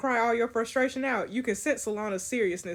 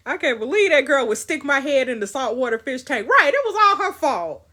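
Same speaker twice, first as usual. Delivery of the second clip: laughs through the words, then goes higher and much louder; laughing; 5 semitones higher, 8 dB louder than usual. Real, not acted. Laughing at being shoved in the fish tank, laughing loudly. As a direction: crack up while blurting it out.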